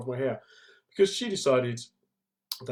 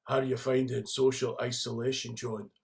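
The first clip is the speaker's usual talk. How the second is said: lightly done Scottish accent, imitating a friend; a hint of husky Scottish; Scottish impression. Friend asking about isolation in a light Scottish accent. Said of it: "in that kind of husky Scottish voice of his".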